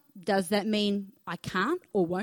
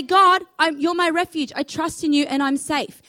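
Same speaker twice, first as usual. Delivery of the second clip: higher, louder bold declaration; 5 semitones higher, 4 dB louder than usual. Shown as a demonstration. Preacher telling the church to declare it at the shops, raised and bold. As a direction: proclaim it up high and strong. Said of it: "Go to the shops and say".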